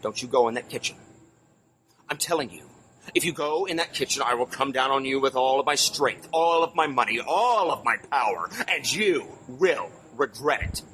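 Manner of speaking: put-on a light French accent, slowing down at the end; heavy French accent. Doctor warning firemen away from his kitchen, light French accent. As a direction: warn them off in a mild French accent, dragging the last threat. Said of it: "said in his heavy French accent".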